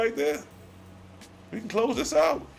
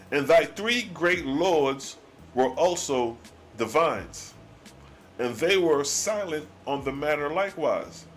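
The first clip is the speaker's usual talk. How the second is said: solemn scripture reading; 3 semitones lower than usual. Acted. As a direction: read the old words like a solemn sermon. Reads God's archaic reply.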